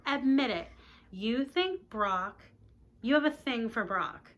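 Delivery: pushy, teasing insistence; insistent. Acted. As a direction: press her to confess. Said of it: "Carolyn insists".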